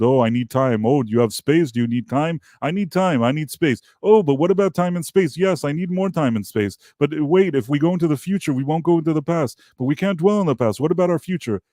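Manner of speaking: exaggerated soap-opera sensitive guy; mocking sappy lover. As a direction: parody a mopey boyfriend pleading for time. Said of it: "he already at the beginning of the".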